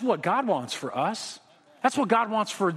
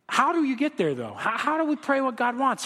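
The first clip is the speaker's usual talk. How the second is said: ordinary delivery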